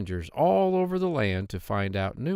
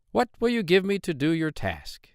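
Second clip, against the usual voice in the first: higher, squeaky voice of a hobbling little man; droll little man; 7 semitones higher than usual. Acted. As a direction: pitch him up high and sly. Dwarf bargains again.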